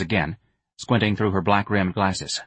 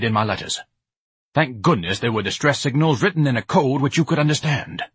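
pompous lovesick Ignatius; 3 semitones higher than usual. Acted. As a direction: ham it up like a grandiose suitor. Ignatius analyzes himself.

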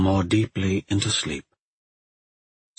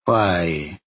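calm once more; 2 semitones lower than usual. A narrator's reading. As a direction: ask it evenly, temper regained. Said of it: "her voice calm once more".

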